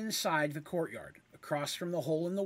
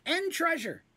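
very high, bright Of course; high eager agreement; eager kender; 5 semitones higher, 4 dB louder than usual. Acted. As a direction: jump at the chance.

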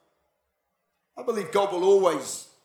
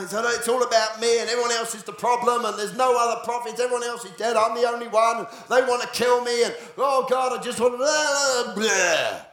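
whiny Elijah; 3 semitones higher than usual. Retold or imitated. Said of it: "And he's done".

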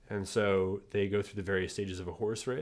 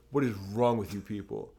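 escalating comedy rant; 2 semitones higher, 6 dB louder than usual. Retold or imitated. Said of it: "looked at us with, like, disdain".

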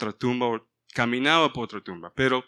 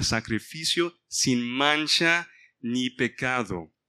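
louder, measured preaching read of the passage; scripture reading; 4 dB louder than usual. Acted. Pastor reading Hebrews to the brothers, a preaching read. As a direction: read it out to the congregation like a sermon.

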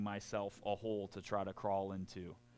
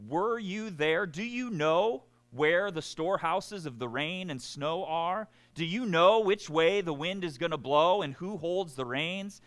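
sarcastic God; 4 semitones higher than usual. Acted. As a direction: needle Job with sarcastic questions. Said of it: "I like the sarcasm".

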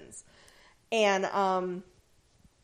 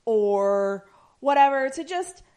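mock British; 5 semitones higher than usual. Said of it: "You're so British".

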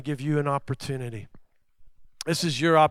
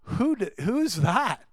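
indignant scoff; 6 semitones higher, slower than usual. Retold or imitated. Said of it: "religious spirit started going".

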